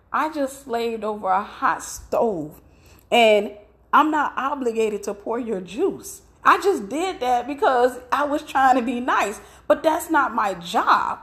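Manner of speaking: slow, mildly indignant retelling; retold anger. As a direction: protest with a touch of offended wife, drawing it out. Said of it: "I was so mad".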